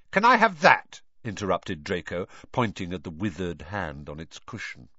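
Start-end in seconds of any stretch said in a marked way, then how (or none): 0.1-1.0 higher, louder eager demand; spoiled boy butting in. Acted.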